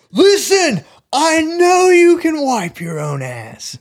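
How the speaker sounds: high, loud, drawn-out comic yell; Adam Sandler. Acted. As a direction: burst out shouting in a silly high voice. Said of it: "Adam Sandler".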